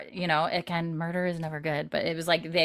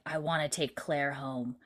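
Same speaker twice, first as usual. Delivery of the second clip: growl hiss; 3 semitones lower, 6 dB quieter than usual. Retold or imitated. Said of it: "it's like a growl hiss when he says this".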